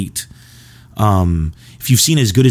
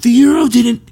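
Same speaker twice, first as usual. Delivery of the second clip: very high, loud, exasperated teacher; exasperated teacher impression; 14 semitones higher, 4 dB louder than usual. Comedian imitating the history teacher answering about the euro, high and exasperated. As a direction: shriek it in disbelief. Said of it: "he would always be like".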